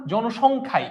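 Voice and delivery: জনসংখ্যাই said emphatically, final ই marked; stress on জনসংখ্যাই. Shown as a demonstration. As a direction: press on the end of জনসংখ্যাই. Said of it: "একটু জোর দিলাম না".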